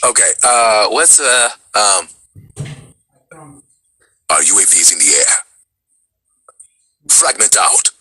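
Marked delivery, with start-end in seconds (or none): 4.3-7.9 lower, paced soldier callouts; the Jackal. Shown as a demonstration. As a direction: call it like a field operative. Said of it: "how does he sound?".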